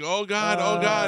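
mortified. Retold or imitated. Host recalling his embarrassment to co-hosts, mortified. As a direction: panic over and over. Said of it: "I was like".

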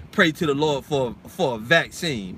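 mock preacher. Mocks preacher asking for vaccine.

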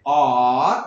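"ಆರ್" stretched long and low; dragged-out word. Shown as a demonstration. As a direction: drag the vowel of "ಆರ್" right out. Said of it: "ನಾನು ಅದನ್ನ drag ಮಾಡಿದೆ".

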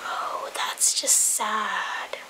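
slow, soft, whispered sympathy; whispered pity. Real, not acted. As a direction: breathe it out slowly, pitying. Watching fail video.

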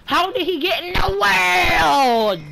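drawn-out yell. Real, not acted. Shocked gamer yelling mid-match.

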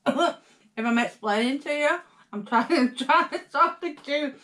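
talking while chewing; words round a mouthful; mouth full. Real, not acted. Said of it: "I'm still chewing".

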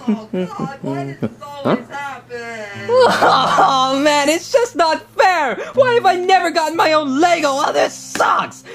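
mock crying. Luigi alone, lamenting.

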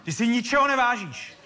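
angry father scolding. Acted. Father scolding his son over the guitar, angry and sharp. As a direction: tear into the boy for wrecking the guitar.

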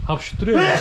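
laughing through the words. Real, not acted. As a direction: laugh while complaining. Pepper stings, laughing about sneezing.

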